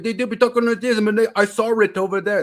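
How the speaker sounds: put-on high, loud Asian-accented British English; caricatured Asian-British accent; mock Asian-British accent. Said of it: "Asians who go and learn British English".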